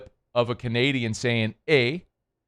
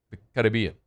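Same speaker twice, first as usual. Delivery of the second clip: lower, accented take on Caribbean; 4 semitones lower, faster than usual. Shown as a demonstration. Host showing how locals say it, accented Caribbean. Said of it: "it's the accent".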